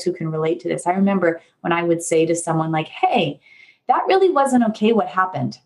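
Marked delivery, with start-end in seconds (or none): 2.9-5.6 calm but firm mild protest; firm objection. Shown as a demonstration. Speaker telling someone their action wasn't okay, firmly. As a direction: set a boundary without raising your voice. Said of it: "probably exactly that tone of voice".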